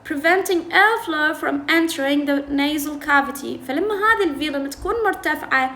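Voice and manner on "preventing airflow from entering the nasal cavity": slow, careful read of these are called affricates; reading the textbook aloud. Shown as a demonstration. Teacher reading the textbook to students, slow and careful. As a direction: read the English line slowly for the class. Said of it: "textbook reading".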